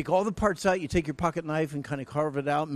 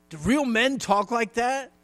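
slow, higher doubting voice; a hint of a tough guy scoffing; mock skeptical man; 9 semitones higher, 8 dB louder than usual. Skeptical man in the pews scoffing at the advice. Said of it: "you say".

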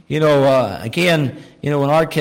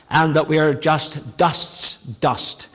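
slow, emphatic repetition; slower than usual. Retold or imitated. Praying man expanding his point, slow and fading. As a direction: drag out each dust, fading to a breath. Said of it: "to emphasize the point".

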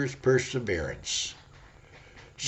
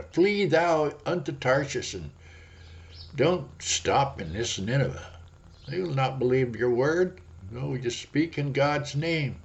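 devil tempting; 3 semitones higher than usual. Acted. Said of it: "The devil will say".

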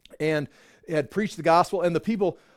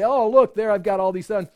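mock proud boasting; 5 dB louder than usual. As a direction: brag like a kid showing off his pins. Mocking self-satisfied churchgoers.

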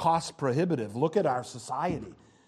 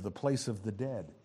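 usual speaking voice

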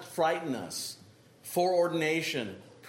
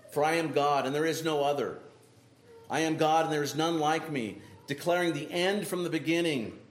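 scripture reading. Acted. Preacher reads Isaiah aloud.

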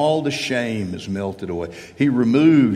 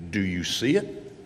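imitated teacher's query with rising end; algebra teacher's question; 3 semitones lower, 4 dB quieter than usual. Algebra teacher asks the class, imitated questioning. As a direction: lift "see it" like a teacher checking. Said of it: "renowned for asking this question".

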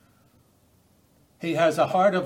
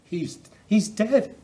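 stoning crowd; 6 semitones higher, slower than usual. Retold or imitated. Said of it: "they said".

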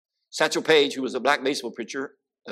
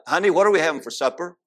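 husband calling to wife; 4 semitones higher, faster than usual. Retold or imitated. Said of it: "talked a little louder".

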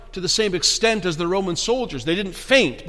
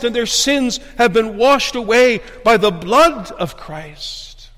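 raised, emphatic pulpit voice; fervent preaching; 6 semitones higher, 5 dB louder than usual. Real, not acted. Preacher assuring believers hidden in Christ, fervent preaching. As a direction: press the assurance on them.

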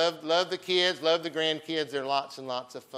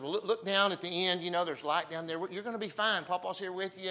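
higher-pitched coaxing of a little one; retold reassurance; 5 semitones higher than usual. Papa to granddaughter amid the brushes, retold reassurance. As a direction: retell comforting a scared child, pitched up.

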